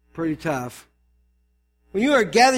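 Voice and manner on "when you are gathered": firm, slightly raised reading; Paul calling them out. Acted. Pastor voices Paul addressing the church, firm. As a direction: read it as a public call-out. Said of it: "he's calling them out".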